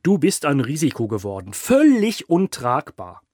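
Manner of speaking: gloating sneer. A narrator's reading. Boss gloating down at his bound captive, smirking. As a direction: savour the captive's doom with a smirk. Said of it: "Mit hämischem Grinsen".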